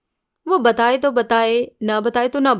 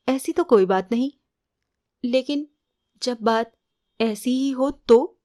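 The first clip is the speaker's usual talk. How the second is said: a shy girl's answer, lightly voiced, slowing at the end; coy demo; 2 semitones higher than usual. Shown as a demonstration. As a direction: demonstrate bashful lowered-eyes reply, half mocking. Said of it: "अरे, शर्मा कर, सकुचा कर, निगाह झुका कर". (शर्माती, सकुचाती हल्की नकल)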